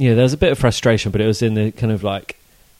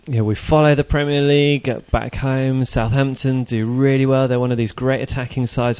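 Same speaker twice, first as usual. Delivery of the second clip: excited American fans; 2 semitones higher than usual. Retold or imitated. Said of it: "they were so excited, and they're like".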